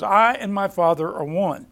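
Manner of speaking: "I" picked out at the front of the phrase; stress on I. Shown as a demonstration. Preacher pointing out who is one with the Father, stressing "I". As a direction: put the weight on "I". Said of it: "So the emphasis is".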